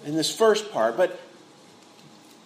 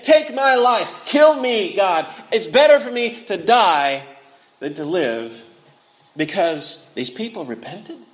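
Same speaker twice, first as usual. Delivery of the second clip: mock angry demand. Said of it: "he was saying".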